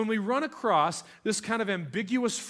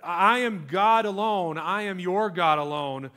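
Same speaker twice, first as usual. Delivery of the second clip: God declaring; 4 dB louder than usual. Acted. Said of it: "you see that all over the Bible".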